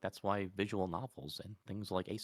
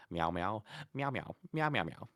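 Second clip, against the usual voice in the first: meowing cat; 4 semitones higher than usual. Pretend. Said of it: "communicate to them in ... broken cat".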